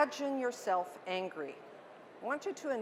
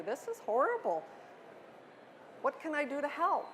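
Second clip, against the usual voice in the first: higher, quicker, caring coworker voice; sympathetic coworker; 3 semitones higher than usual. Acted. Coworker comforting an angry colleague, fast, higher sympathetic voice. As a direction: gush sympathy at a venting friend. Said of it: "You want to hear things like".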